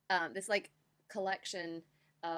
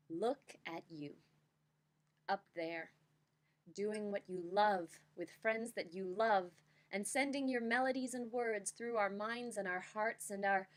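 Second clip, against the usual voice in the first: slam poetry reading. Shown as a demonstration. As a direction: perform it like spoken word. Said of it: "here I shall attempt my best slam poem reading".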